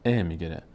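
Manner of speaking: short, open "ا" as e; short e vowel. Shown as a demonstration. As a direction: say "ا" as a short e, not ee. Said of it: "ای نشه". (صدای کوتاهِ اِ)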